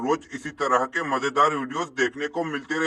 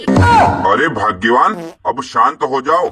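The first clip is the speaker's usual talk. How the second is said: calling out; 2 semitones lower, 5 dB louder, slower than usual. Acted. Husband calls out to quarreling wife.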